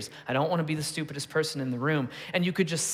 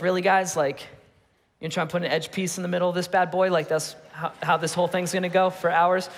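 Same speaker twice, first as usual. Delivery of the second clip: exasperated sarcasm; 3 semitones higher than usual. Retold or imitated. Dad snapping at his kids over a puzzle, exasperated sarcasm. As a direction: let out the eye-rolling dad he holds back. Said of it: "what I wanna be is like".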